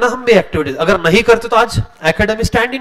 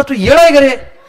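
higher, incredulous retort; mock scolding; 5 semitones higher, 3 dB louder than usual. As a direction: tease him like he's crazy. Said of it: "बोला". (मज़ाक में डाँटते हुए, ऊँची आवाज़)

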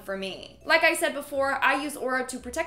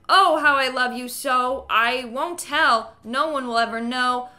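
louder, unhinged creepy inner monologue; 7 dB louder than usual. Acted. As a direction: ramble like an obsessed creep. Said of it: "Dude is having a full-on monologue".

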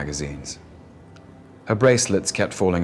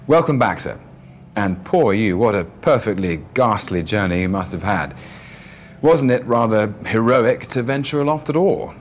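obsequious hotel manager; 3 semitones higher than usual. Acted. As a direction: gush over the guest. Hotel manager greets rich guest.

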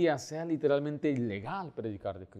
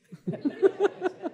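high laugh. Real, not acted. Laughs at the story's punchline.

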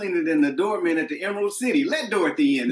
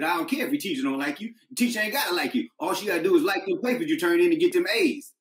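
stern dad; faster than usual. Retold or imitated. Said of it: "I said".

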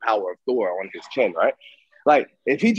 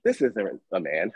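dismissive self-talk; 5 semitones lower than usual. Retold or imitated. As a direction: talk yourself down, word by word. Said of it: "to say".

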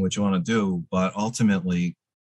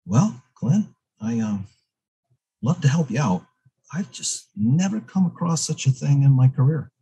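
Bob Clark; 5 semitones higher than usual. Retold or imitated. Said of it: "And Bob says".

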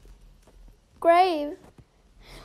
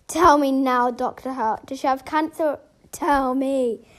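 demanding; 4 dB louder than usual. Pretend. Demanding the doctor's diagnosis.

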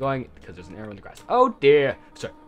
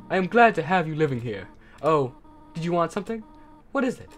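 higher, gentle goat mother, fond and proud; motherly Toriel voice; 5 semitones higher than usual. Acted. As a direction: speak like a caring teacher-mother.

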